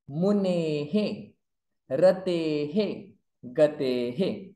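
each word ending in an echoing hu or he; visarga echo drill. Shown as a demonstration. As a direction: sound the visarga as ha echoing the vowel before it. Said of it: "Before visarga a".

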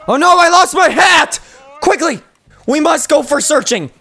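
high, loud, hammed-up panic; mock alarm. Player who lost a hat in game, mock alarm. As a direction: cry out in mock distress.

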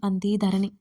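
usual speaking voice

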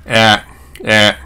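え mixed with 'ah', a wide 'æ'; vowel between 'ah' and 'eh'; American A. Shown as a demonstration. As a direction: say え as the cat vowel. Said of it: "えが混ざったやつ".

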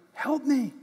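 put-on a light high child's plea; lightly voiced hurt child calling; child crying out. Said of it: "They'll cry out to mommy or daddy".

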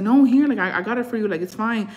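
insistent. Retold or imitated. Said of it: "And I was insisting".

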